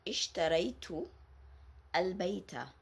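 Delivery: "ishtaraytu al-bayta" slightly slow, ta clear; model sentence. Shown as a demonstration. Teacher giving the ta al-maftuha example. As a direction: read "ishtaraytu al-bayta" carefully. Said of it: "The same as".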